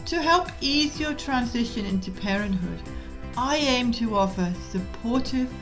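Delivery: measured, clearly articulated scripted read; podcast intro read. Real, not acted. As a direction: read the show's intro in even, deliberate phrases. Recorded podcast intro and disclaimer.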